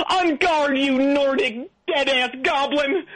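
theatrical shouted challenge; hammy battle cry. Acted. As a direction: yell the challenge like a hammy swashbuckler. Challenging ghost to sword fight.

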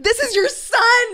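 high, laughing through the words; can't hold back the laugh. Real, not acted.

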